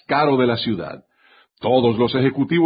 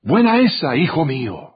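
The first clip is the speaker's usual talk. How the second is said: cheering. A narrator's reading. God cheering on his faithful child, proud and excited. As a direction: cheer your son on with pride. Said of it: "y nos vitorea".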